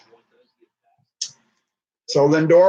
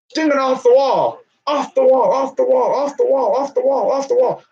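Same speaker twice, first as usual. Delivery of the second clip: mock call; 8 semitones higher than usual. Hammy play-by-play chant.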